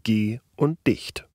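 "Ge-" and "Dicht" as two separate syllables, with a pause between them; split into syllables. Shown as a demonstration. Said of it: "besteht beispielsweise aus den zwei Silben". (Silben getrennt: "Ge-" und "Dicht")

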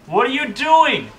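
high, slow, laughing disbelief; cover me shout. Real, not acted. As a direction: squeal through laughter at teammates. Exasperated at teammates' blunder.

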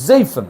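"জেইফেন" with the zei drawn out; drawn-out vowel. Shown as a demonstration. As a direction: give the first syllable of "জেইফেন" a pull. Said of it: "একটু টান দিবেন".

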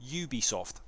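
"Ubisoft" with a "you" at the start; English YOU-bee "Ubisoft"; English pronunciation. Shown as a demonstration. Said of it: "you should pronounce it".

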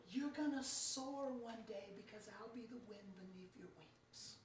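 soft, gentle promise, fading out; tender God voice. Pretend. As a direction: say it like a quiet blessing. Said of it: "And God says".

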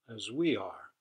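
loud, proud trumpeting; mildly trumpeting elephants; trumpeted. A narrator's reading. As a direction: boom it out like elephants. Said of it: "trumpeted the elephants".

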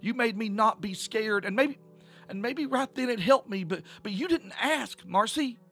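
high-pitched, upset accusation, halting then rushing; angry. A narrator's reading. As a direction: confront her, stumbling over the words. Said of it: "Tish had said angrily".

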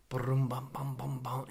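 softly vocalized boom-bum beat; mimicked dance beat. Imitating Jordan's dance fitness class, soft mimicked beat. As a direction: imitate a workout beat under your voice. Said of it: "So she's all like".

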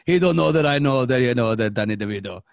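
loud, insistent acted comeback; mock insistent outburst. Re-enacting the Danny DeVito argument, loud insistent comeback. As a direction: push it out loudly in one run. Acting out the movie character's comeback.

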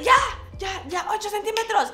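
high, loud excited yell of the doctor; doctor suddenly shouting the dilation, loud and high; retold shout. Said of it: "así de la nada grita de".

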